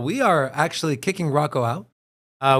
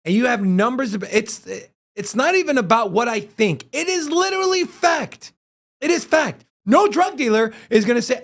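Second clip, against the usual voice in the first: infuriated rant; 5 semitones higher than usual. Real, not acted. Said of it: "it's so infuriating".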